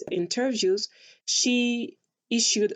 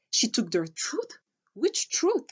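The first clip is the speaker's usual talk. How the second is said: incredulous; 4 semitones higher than usual. Real, not acted. Incredulous rhetorical question.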